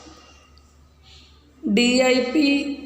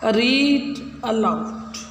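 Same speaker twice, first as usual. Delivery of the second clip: slow instruction; slower than usual. Shown as a demonstration. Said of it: "read aloud का अर्थ बताया ना मैंने".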